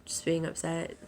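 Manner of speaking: hoarse, fading voice after crying; losing her voice. Real, not acted. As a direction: voice giving out, soft and worn. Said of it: "I'm starting to lose my voice a little bit".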